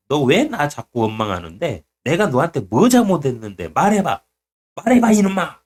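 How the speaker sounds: mock-stern divine telling-off; God scolding. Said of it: "막 그거 혼내신다니까".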